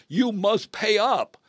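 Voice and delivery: stern demand. Acted. Servant grabbing his debtor by the neck, stern demand. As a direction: demand the debt, word by word. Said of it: "grabs him by the neck and says".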